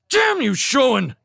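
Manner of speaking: high, loud angry snap; snapped. Acted. Felix snaps furiously at Showen. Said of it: "Felix snapped".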